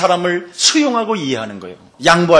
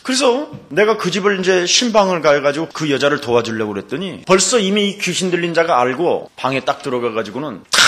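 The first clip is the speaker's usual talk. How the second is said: ordinary talk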